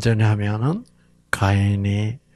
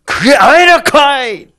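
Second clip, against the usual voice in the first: much higher, louder Gyeongsang bark; Gyeongsang dialect God; 12 semitones higher, 10 dB louder than usual. Acted. Preacher contrasting dialects, forceful Gyeongsang accent. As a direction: hit it hard and high like a Gyeongsang man. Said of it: "경상도 말은 세죠".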